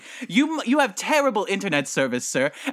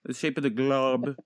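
stumbling, long stops mid-phrase; halting reading; 3 semitones lower than usual. Acted. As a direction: struggle through the words as a poor reader. Stumbles reading one sentence aloud.

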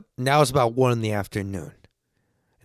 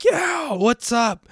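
put-on drunk greeting; 12 semitones higher, much slower than usual. Drunk reply to friends.

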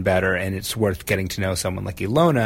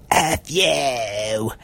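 put-on curt English-accented F you; 2 semitones higher than usual. Retold punk lady cursing in an English accent. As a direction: spit it out in a clipped English accent. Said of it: "in an English accent".

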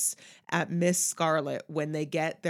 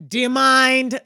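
much louder, pitched up, a sharp put-out "Do you mind?"; loud indignant demand; 5 semitones higher, 13 dB louder, slower than usual. Shown as a demonstration. Friend demos the actress's vocal quality, loud and indignant. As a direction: hit it like an offended grande dame. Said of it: "that kind of vocal quality".

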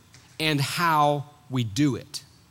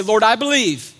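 congregation call; 5 semitones higher, 5 dB louder than usual. Shown as a demonstration. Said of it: "Somebody say".

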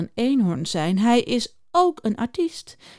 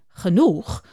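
a touch of bewildered asking, lower; puzzled question; 4 semitones lower than usual. Acted. Juniper echoes the beaver, mildly puzzled. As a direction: ask it back, mildly baffled. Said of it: "vraagt Juniper verwonderd".

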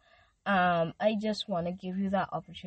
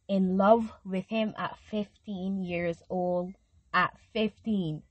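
getting emotional; 4 dB louder, slower than usual. Real, not acted. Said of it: "look at me getting emotional".

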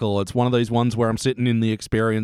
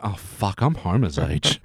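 mock dismay; 5 semitones lower than usual. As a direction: let it sink in with mock dread. Retold dismay at being older.

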